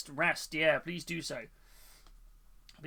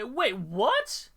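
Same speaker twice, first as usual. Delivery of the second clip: shocked, laughing congrats; surprised; 6 semitones higher than usual. Real, not acted. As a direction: burst out in surprised delight. Surprised by early baby news.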